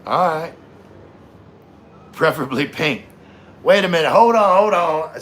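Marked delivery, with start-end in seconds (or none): 3.6-5.2 surprised. Real, not acted. Surprised interruption.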